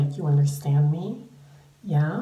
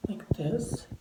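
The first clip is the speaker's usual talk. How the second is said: whisper; 4 dB quieter than usual. Real, not acted. Showing pajamas in aside.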